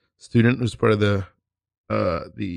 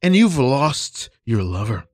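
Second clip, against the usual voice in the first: a touch of faked tears as the teacher; hammed-up choked-up coach; mock emotional teacher; 2 semitones lower than usual. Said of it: "I'm already becoming emotional".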